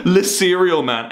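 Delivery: drawn out slowly, mocking; sneering at the old meme. Mocking the old meme to chat, drawn out slowly.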